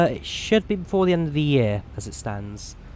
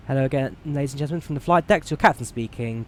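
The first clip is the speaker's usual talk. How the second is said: fast, upbeat airline captain PA; captain's cabin announcement; 3 dB louder, faster than usual. Acted. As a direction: address the passengers like a captain. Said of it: "speak to passenger".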